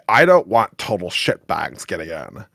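ordinary talk, nothing marked

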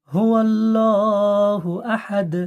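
slow drawn হুয়াল্লাহু আহাদ; slow correct recitation. Shown as a demonstration. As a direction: stretch it out properly. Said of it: "পড়তে হবে". (ধীরে টেনে সঠিক তিলাওয়াত)

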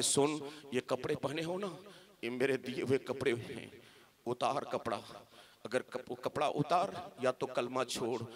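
low, hushed ultimatum; soft, low menacing uncle; quiet threat. Acted. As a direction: drop the voice and demand it. Uncle coldly threatens child.

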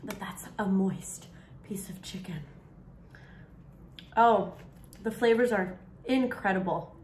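chewing while talking; savoring a bite; mouth full. Real, not acted. Seen 0: Looks down, closed lips working between words, food on fork earlier.

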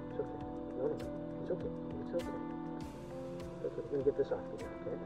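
very soft, hushed reassurance to an animal; calm a frightened goat, softly; soothing. Real, not acted.

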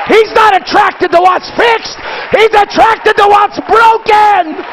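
full-force preacher shout; preaching. Acted. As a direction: preach it out with fire.

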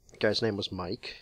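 hushed, unvoiced whisper. Real, not acted. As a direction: whisper the name. Whispered first take, repeated aloud.

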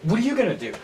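freaking out. Acted. Student panicking to roommate about life after college, freaking out. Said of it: "I'm freaking out".

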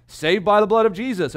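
emphatic preaching. Acted. Hymn titles, rising emphasis.

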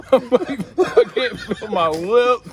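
words tumbling out through laughter; giggling while complaining; laughing. Real, not acted. Numb-lipped friend tells the others, laughing.

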